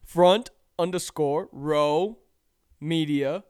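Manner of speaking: loud, slow, each word spelled out. Shown as a demonstration. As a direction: call it to the back row. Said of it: "Say it one more time for the people in back".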